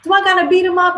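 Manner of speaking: high, bold voice of a friend ready to fight; mock girlfriend hyping her friend up, voice pitched high; hyped-up girlfriend. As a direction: play the bestie who's ready to beat him up.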